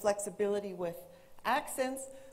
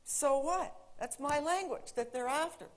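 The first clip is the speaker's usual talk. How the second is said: higher-pitched retold indifference; mildly hammed-up native speaker's shrug; dismissive thought; 5 semitones higher than usual. Speaker voices her old attitude to English learners, dismissive. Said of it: "And I'm still thinking".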